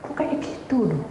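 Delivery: high, surprised exclamation; retold shock, pitched well up then easing; startled. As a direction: react taken aback, voice jumping high. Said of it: "Saya kaget".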